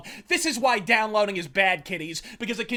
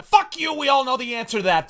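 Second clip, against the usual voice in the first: sudden loud, much higher curse; a quick, loud, high-pitched curse; mock outburst; 4 semitones higher, 4 dB louder than usual. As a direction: spit it out like a punchline. Mock answer to own query.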